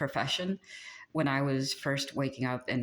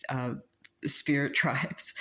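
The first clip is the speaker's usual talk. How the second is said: quoting the angels; slower than usual. Retold or imitated. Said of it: "one of my angels said".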